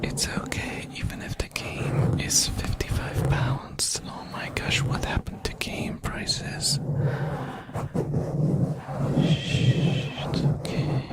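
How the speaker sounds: soft soothing whisper; soft bedside voice. Acted. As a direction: hush them gently like a sick child. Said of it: "I'm listening to S M R".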